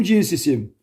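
cins isim dropped low and soft as in a tall-or-small game; low "small" call. Shown as a demonstration. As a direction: sink cins isim down, like calling "dwarf". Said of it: "deve cüce oynuyoruz".

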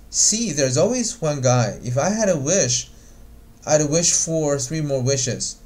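playful, drawn-out teasing; mocking. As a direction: gently make fun of him, stretching the words. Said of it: "她是在mocking Chandler的".

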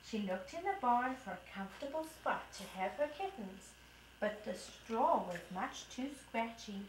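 put-on lively storybook voice for a toddler; reading to children. Mom reading the kitten story to her toddler. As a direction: read it brightly to a little one. Mom reads picture book aloud.

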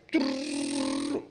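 low buzzing trill mimicking tape; rolling noise. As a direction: rrr like a camera starting. Camera starts rolling.

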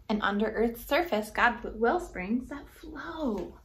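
rhythmic rhyming read-aloud; story narration. A narrator's reading. Reading a rhyming book to kids, gently lilting. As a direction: read the verse to children, bouncing the rhymes.

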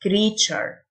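"creature" with TU said "tsh". Shown as a demonstration. Teacher showing students that TU in "creature" sounds "tsh". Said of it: "التيو تنطق تش".

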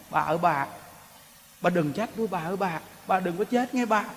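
soft pleading husband. Acted. Husband pleading to dying wife.

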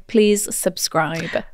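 very slow, low playful plea; mock begging. Host begs listeners to subscribe, mock pleading. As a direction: draw out each word as a mock-solemn appeal. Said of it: "we beg of you".

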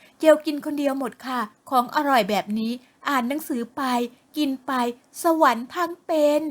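blissful about her food; happy daughter. Acted. Daughter tells mother how she enjoys eating, chirpy voice.

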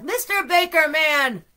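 high, loud, stretched-out cry; frantic yell. A narrator's reading. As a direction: call out desperately down the phone. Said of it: "Arnie frantically yelled".

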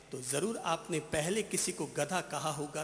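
ordinary delivery

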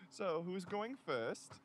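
slow, lightly geeky delivery; lightly put-on unsexy nerd voice. Nurse asks who goes first, mildly geeky voice. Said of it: "I said in a geeky, unsexy voice".

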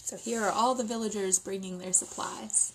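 soft unvoiced whisper; whispered aside. Real, not acted. Reader whispering to children about the picture, hushed. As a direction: let them in on a secret.

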